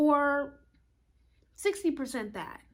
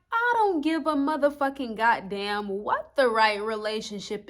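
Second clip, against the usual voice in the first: louder, furious warrior ranting; angry Aries shout; 5 dB louder than usual. Acted. Astrologer voicing Aries to viewers, loud angry rant. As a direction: rage it out like a war god. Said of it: "Aries energy is like".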